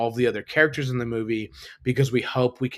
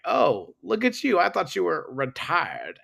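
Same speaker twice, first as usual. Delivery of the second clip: imitating Wesley Snipes; 4 semitones higher than usual. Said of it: "when he's like".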